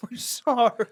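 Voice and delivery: loud, high laughing mock apology; imitating an aggressively polite apology; aggressive but nice. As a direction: blurt an overeager sorry through a laugh. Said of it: "They're, like, aggressive, but trying to be nice".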